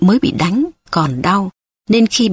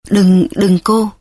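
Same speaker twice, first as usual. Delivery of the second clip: startled plea; 3 dB louder, slower than usual. A narrator's reading. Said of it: "con bé giật mình sợ hãi".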